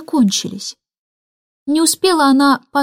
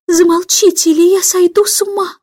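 exasperated shout; 7 semitones higher than usual. A narrator's reading. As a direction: snap at the children, at the end of your rope. Mother shouts at children. (мать в отчаянии кричит на детей)

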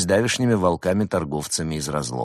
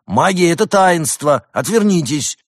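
higher, louder offended demon; indignant demand; 11 semitones higher, 7 dB louder than usual. A narrator's reading. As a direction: insist sharply, scandalised. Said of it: "возмутился левый демон".

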